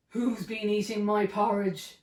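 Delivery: a hint of a gruff papa bear; lightly voiced gruff bear demanding; gruff big bear. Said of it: "a loud, gruff voice".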